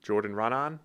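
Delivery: questioning Boston attempt at a full name; tentative Boston-accented name, rising at the end. Shown as a demonstration. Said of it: "pretend you're saying 'run on' in a Boston accent".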